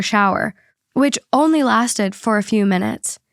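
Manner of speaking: even, measured read-aloud voice; podcast host reading a written account; reading a post aloud. Acted. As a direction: read out a personal story clearly. Reads the listener post aloud.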